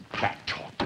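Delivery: whispered under breath, bitter; unvoiced mutter. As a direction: hiss it to yourself. Bitter repeat of son's words.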